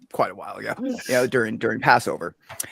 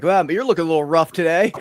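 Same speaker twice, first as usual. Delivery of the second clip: retold blunt remark; 4 semitones higher, 9 dB louder than usual. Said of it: "And I'm like".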